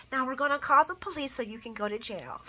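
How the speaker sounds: chuckling as the twist lands; laughing punchline. Retold or imitated. Vlogger mocking Laura's betrayal, laughing. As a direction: deliver the twist through a laugh. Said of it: "That's exactly how it went".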